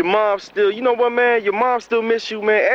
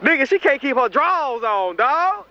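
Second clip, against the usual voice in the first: laughing gossip; 4 semitones higher than usual. Acted. Laughing about baby mama.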